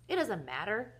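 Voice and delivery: mildly mournful, hammed-up reply; lightly acted woe. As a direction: say it with a touch of self-pity. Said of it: "said Mister Carmody mournfully".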